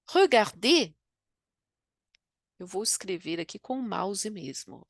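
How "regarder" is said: "regarder" with a rounded schwa and a French R; French pronunciation. Shown as a demonstration. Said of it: "por exemplo, o verbo".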